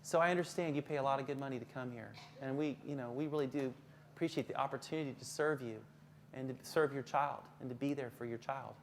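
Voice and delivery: soft, low, sincere reassurance; gentle, deferential teacher voice. Shown as a demonstration. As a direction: placate the parent quietly and humbly. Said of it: "Again, you lower your voice".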